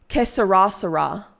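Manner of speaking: "Que sera, sera" as kuh suh-RAH suh-RAH; American mispronunciation. Shown as a demonstration. Streamer repeating what made her friend gag, mispronounced suh-RAH. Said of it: "That's how I said it".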